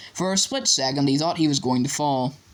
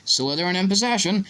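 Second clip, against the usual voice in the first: lightly voiced commentator, raised pitch; match commentary; 5 semitones higher than usual. A narrator's reading. Commentator telling the crowd who has the ball, lively commentary. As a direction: call the play with rising energy. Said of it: "Lee Jordan was saying".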